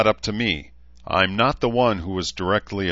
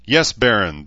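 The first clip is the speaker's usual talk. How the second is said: raised voice calling an answer; called back; 4 semitones higher, 7 dB louder than usual. A narrator's reading. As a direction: answer as if from across the camp. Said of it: "called from the far side".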